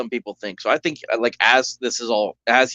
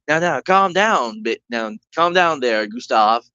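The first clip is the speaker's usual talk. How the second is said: stereotypical voice; slower than usual. Acted. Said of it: "a very, you know, stereotypical kind of, like, sounding voice".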